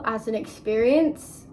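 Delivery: theatrical Heathers-style delivery; dramatic. Real, not acted. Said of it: "why did I sound like that?".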